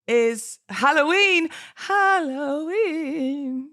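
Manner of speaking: high, slow spooky witch; scary witch voice. Shown as a demonstration. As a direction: drag it out like a cackling witch. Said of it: "That's my scary witch voice".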